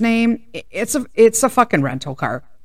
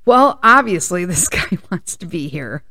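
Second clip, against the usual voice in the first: giggling through a dry joke; a sarcastic quip, laughing mid-line; laughing sarcastic aside; laughing sarcasm. Retold or imitated. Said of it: "she says".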